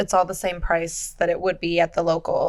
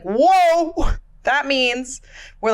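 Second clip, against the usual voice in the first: surprised; 5 semitones higher, much slower than usual. Retold or imitated. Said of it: "And then I was like".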